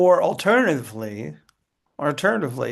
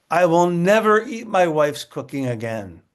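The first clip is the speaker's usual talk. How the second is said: angry vow; 4 semitones higher, 4 dB louder than usual. Shown as a demonstration. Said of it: "I'm very angry".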